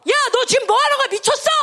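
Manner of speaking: high-pitched, indignant telling-off; sharp acted rebuke; acted scolding. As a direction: scold a friend in disbelief. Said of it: "하고 막 야단을 쳐야".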